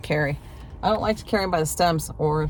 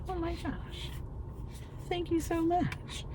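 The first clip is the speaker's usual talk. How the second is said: retold gushing thanks; 13 semitones higher, 11 dB quieter, slower than usual. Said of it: "I'm like".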